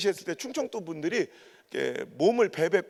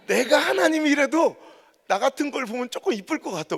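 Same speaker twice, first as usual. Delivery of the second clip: smug self-talk; 6 semitones higher than usual. Retold or imitated. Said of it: "내가 생각해보면 혼자".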